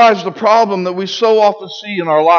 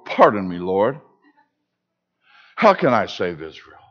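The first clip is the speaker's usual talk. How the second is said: much lower and soft, shrinking; meek and timid; 12 semitones lower, 5 dB quieter than usual. Acted. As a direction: ask it small, like a frightened man excusing himself. Gideon's timid alternate phrasing.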